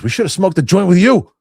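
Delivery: high, loud laughing dad quote; dad cracking up at the fine; dad's joke, laughing. Retold or imitated. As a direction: blurt it out laughing hard as the dad. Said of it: "My dad goes".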